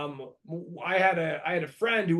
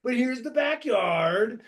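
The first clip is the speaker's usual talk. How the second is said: mock real estate agent. Crackhead showing the crack den like a realtor, hammed-up. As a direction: present the house like it's a luxury listing. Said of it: "gave me a tour like he was a real estate agent".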